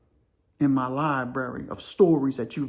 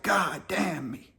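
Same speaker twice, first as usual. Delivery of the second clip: slow, breaking remorse; anguished regret; 3 semitones higher, much slower than usual. Retold or imitated. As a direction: drag it out as if near tears. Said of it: "And he's like".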